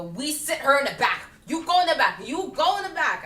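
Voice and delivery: mock bossy staff; mock staff orders. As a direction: bark mock orders at the guest. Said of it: "they go".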